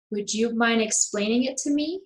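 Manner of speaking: yes-or-no question climbing up to ME at the end; rising question intonation. Shown as a demonstration. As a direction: lift the pitch steadily through "explaining it to me". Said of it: "we go up at the end".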